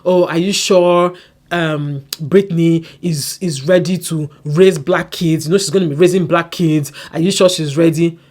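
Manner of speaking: loud, slow, drawn-out mock concern; loud mock concern aimed at Kenneth; mocking her. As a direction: ham up her fake worry. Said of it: "she was telling Kenneth".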